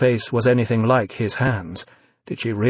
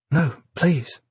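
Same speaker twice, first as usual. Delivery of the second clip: quick protest; 4 semitones higher than usual. A narrator's reading. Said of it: "Evie put in quickly".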